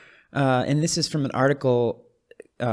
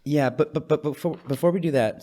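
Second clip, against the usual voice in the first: stammering over the words; tripping over repeated words; stuttering; 4 semitones higher than usual. Real, not acted. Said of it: "sorry, I'm stuttering over here".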